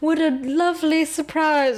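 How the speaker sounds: very slow, drawn-out, dramatic put-on mid-Atlantic accent. Retelling what a woman said when she came in; imitating a dramatic mid-Atlantic accent. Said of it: "It's like some really dramatic".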